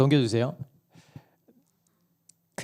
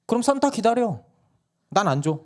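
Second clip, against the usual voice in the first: 높게 톡 쏘는 엄마 말투; 약 올리듯 잘라내기; 10 semitones higher than usual. Retold or imitated. 엄마가 받아침. (막내에게 받아치는 아내 말투)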